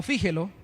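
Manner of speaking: "fíjelo" with the accent on FÍ; stress on first syllable. Shown as a demonstration. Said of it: "sería tilde en la I".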